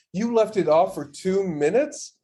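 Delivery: drawn-out, incredulous question; mock disbelief. Retelling friends' reaction to the diaper mistake, mock disbelief. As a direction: stretch it out as if appalled by the answer. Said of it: "the look on you and Morgan's face".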